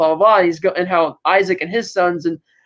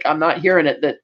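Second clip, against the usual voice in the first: lightly voiced stubborn official, low; stubborn Stasi agent; 4 semitones lower than usual. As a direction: state it lower and unbudging, like a stubborn agent. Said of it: "stubborn Stasi agent was like".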